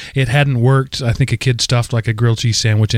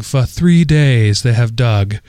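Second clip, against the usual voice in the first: posh English narrator; slower than usual. Retold or imitated. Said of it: "posh English woman saying".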